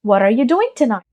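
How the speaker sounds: slow accented question with weight on "doing"; connected, accented English question; Netflix-style accent. Shown as a demonstration. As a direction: imitate an English-speaking series character's accent. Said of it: "अगर किसी Netflix किरदार ने कहा हो".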